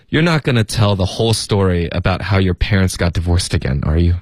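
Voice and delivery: listless, barely-stressed monotone; lethargic, unemphatic delivery; too lazy to speak. Acted. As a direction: say it as if too stuffed to move your mouth. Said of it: "他说的时候就是有一点像嘴巴都动不了了".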